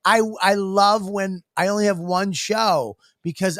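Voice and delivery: high-pitched indignant protest; mock-furious, insistent self-defence; retold anger. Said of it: "you made me angry".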